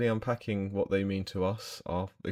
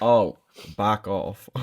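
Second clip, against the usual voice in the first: mock Welsh back off, slow and drawn out; a hint of a Welsh accent, slow and louder; 7 dB louder, much slower than usual. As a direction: lightly voice a Gavin and Stacey line. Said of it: "Gavin and Stacey".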